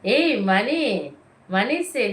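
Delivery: loud drawn-out call across the room. Real, not acted. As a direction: stretch the name out to reach her. Calling to the child across room. (நீட்டி உரக்க அழைத்தல்)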